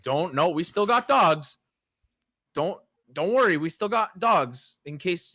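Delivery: slow, loud, pointed reassurance; insistent owner. Retold or imitated. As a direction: stress the warning behind the smile. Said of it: "Is that why he's saying".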